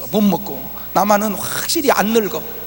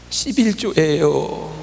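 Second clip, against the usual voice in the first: tearful offering; much slower than usual. Retold or imitated. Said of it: "울더래요".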